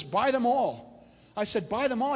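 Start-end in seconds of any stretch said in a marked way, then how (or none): 0.0-1.1 slow, raised, firm retold command; lightly voiced God giving orders; God's command. 1.7-2.1 higher-pitched echo of an order; retold taken-aback response, pitched up; startled echo. His startled echo of God's command.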